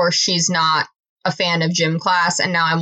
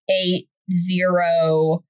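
spelling it out; much slower than usual. Shown as a demonstration. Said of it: "like, spelled bomb".

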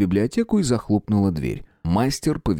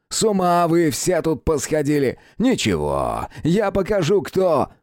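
furious prince; 7 semitones higher, slower than usual. Acted. Prince threatening the boy as he swings, furious. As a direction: rage and threaten to strike.

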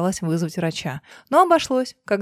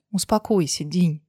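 gently; 3 semitones lower than usual. Acted. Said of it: "ласково проговорила Лена".

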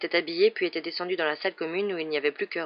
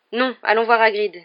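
firm, louder, resolute; decided; 4 semitones higher, 9 dB louder than usual. A narrator's reading. Harry turning down chess to visit Hagrid, decided. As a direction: say no firmly and settle the matter. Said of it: "d'un ton décidé".

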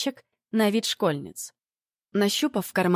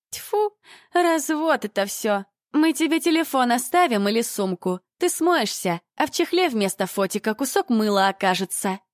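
scornful scoff; 5 semitones higher than usual. Acted. Dyed blonde scoffing at the narrator's camera deal. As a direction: spit out the suspicion.

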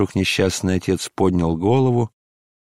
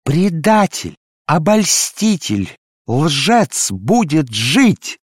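much higher, loud, slow ecstatic wailing; frenzied invocation; 6 semitones higher, 4 dB louder, slower than usual. Acted. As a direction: cry out to God in a frenzy. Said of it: "исступлённо взывала". (исступлённый вопль к Богу)

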